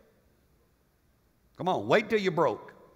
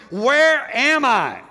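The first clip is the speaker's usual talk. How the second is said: loud, high, drawn-out cry of disbelief; anguished bewilderment; 8 semitones higher, 9 dB louder, much slower than usual. Acted. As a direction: wail it slowly at yourself, stunned. Sinner's shocked self-questioning, acted.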